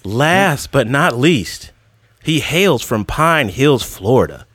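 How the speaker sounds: slow, drawn-out guest introduction; ring-announcer style build-up of credits. Acted. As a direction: announce each credit slowly, with pauses.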